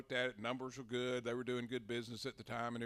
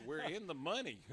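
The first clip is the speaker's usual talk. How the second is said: gleeful cheer; 5 semitones higher, 7 dB louder than usual. Retold or imitated. Celebrating a flood of replies.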